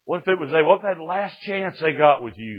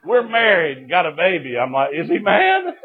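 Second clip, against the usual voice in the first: retold alarm; 8 semitones higher, 5 dB louder than usual. Acts out his dread of dad's anger.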